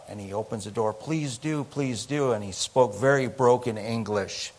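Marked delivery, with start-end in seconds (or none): 0.9-2.3 soft, higher, lightly voiced plea; small, high begging voice; pleading stranger. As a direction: imitate a grateful man pleading quietly. Voicing the desperate stranded man.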